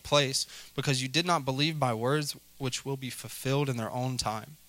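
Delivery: steady, formal Bible reading; measured, solemn reading voice; scripture reading. Acted. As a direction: read the passage aloud to the congregation. Reads the scripture aloud.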